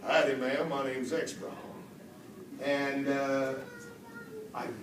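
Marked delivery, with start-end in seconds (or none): 0.1-1.5 Southern accent. Shown as a demonstration. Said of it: "what I did was ... Southern American dialect".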